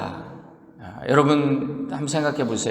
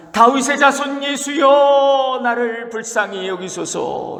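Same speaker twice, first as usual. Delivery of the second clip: a beggar crying out, higher and slower; 9 semitones higher, slower than usual. Acted. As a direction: call out to Jesus, drawing out every word. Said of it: "정말 소리를 지릅니다".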